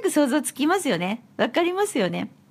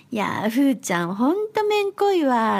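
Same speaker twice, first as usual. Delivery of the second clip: Hokkaido dialect example. Shown as a demonstration. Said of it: "可愛いっていう意味なんですけど".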